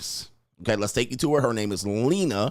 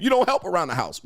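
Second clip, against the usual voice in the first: mock angry mother; 6 semitones higher than usual. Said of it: "she's mad".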